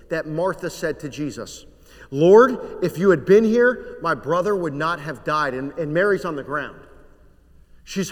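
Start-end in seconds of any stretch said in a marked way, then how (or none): 2.1-5.5 anguished plea. Acted. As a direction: cry out the grief of a sister who lost her brother. Mary's grieving plea to Jesus.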